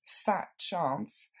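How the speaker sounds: "fat chance" with a doubting rise on "chance"; sarcastic, lifting the end of "chance"; teasing disbelief, rising at the end; ironic. Shown as a demonstration. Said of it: "une tournure largement ironique".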